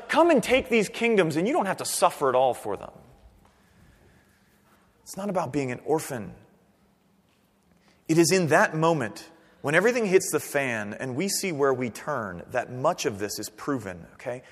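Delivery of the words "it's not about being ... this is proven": usual speaking voice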